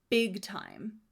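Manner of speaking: Big punched firmly; stress on big. Shown as a demonstration. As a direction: lean hard on the word Big. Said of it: "I stress the word big".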